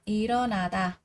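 일어나다 run together as "i-reo-na-da"; linked sounds. Shown as a demonstration. Teacher showing learners liaison, 일어나다 smoothly linked. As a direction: carry the ㄹ of 일어나다 over into the next vowel. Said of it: "nối âm lên ạ".

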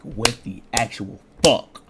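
slow, drawn-out disbelief. Retold or imitated. Vlogger retells the car still dead, slow drawn-out disbelief. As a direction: stretch it out in disbelief.

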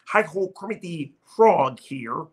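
lightly voiced frog puppet, slow; a hint of Kermit, unhurried and friendly. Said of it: "I got a pretty good Kermit impression".

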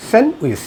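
স্যান্ডউইচ as "sen-wis", silent d; correct pronunciation. Shown as a demonstration. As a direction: drop the d from স্যান্ডউইচ. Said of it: "কীভাবে উচ্চারণ করবেন".

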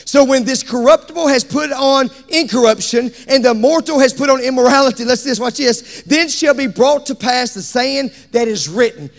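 driving scripture recitation; fervent pulpit delivery; preaching. Real, not acted. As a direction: preach it out in rolling phrases.

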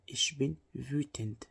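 Ich bin wütend said in one slow unbroken line; steady slow dictation; slow even demo. Shown as a demonstration. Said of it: "Wütend يعني غاضب".

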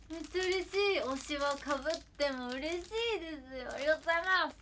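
high, loud burst of happy thanks; overjoyed. Real, not acted. Streamer thanking for a duplicate favourite, overjoyed. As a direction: gush with real delight.

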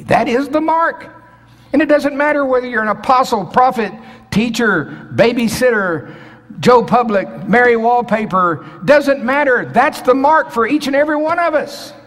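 full-throated pulpit climax; preaching at full force. Acted. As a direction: drive it home to the whole church. Climax of sermon, shouted.

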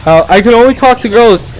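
high, put-on voice of a self-important weirdo; creepy stranger voice. Vlogger mocking the Bronx Earth Angel, high put-on voice. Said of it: "He's like".

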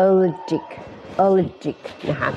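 a-LER-jic, slow and careful; allergic with j. Shown as a demonstration. Teacher reading allergic from its IPA. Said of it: "ออกเสียงไม่ถูกนะคะ มาดู ไอพี".

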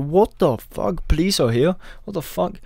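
high, slow stunned disbelief. Retold or imitated. Stoned friends hearing police are here, high slow disbelief. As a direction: drag out the shock.

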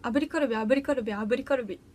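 repeated tongue twister in one run. Shown as a demonstration. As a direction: show off a tongue-twister party trick. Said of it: "特技にしていいですかね".

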